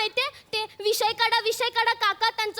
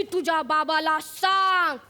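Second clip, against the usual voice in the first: Rosie teacher; 7 semitones lower than usual. Retold or imitated. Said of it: "माझी रोजी teacher मला ओरडली".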